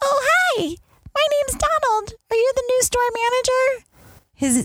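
very high, squeaky, helium-like, mismatched voice. Retelling being introduced by one of the girls, imitating Donald's high voice. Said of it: "But he says it like this".

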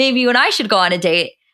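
mock-joking, playful tone. Recounting a man asking a woman on a date: retelling a joking line. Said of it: "Scott says it kind of jokingly".

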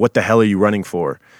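acted angry voice. Recounting an attack, quoting the attacker as he chases her, mock-angry voice. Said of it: "in that same angry voice said".

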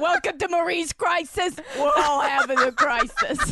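welcoming hostess voice. Acting out the imagined bar owner welcoming guests: imitating Marie welcoming guests. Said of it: "She's like".

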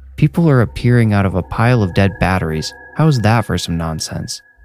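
ordinary delivery

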